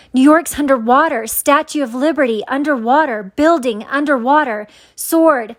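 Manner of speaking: mock-yell each phrase with a falling tune; retold yelling. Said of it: "I started yelling again".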